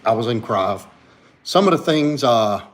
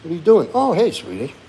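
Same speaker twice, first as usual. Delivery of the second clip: higher-pitched greeting to the dog; pet talk; 6 semitones higher, 3 dB louder than usual. Real, not acted. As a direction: coo at a beloved dog. Cooing at the dog.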